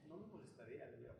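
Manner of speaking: whispered aside; confiding whisper to the listeners. Real, not acted. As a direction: drop to a breathless whisper. Intimate aside to congregation.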